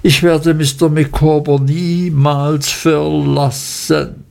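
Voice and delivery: langsam und gedehnt, leicht bewegt beteuert; gerührt, langsam. Acted. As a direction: jedes Wort schwer vor Rührung. (langsame, leicht angedeutete Rührung)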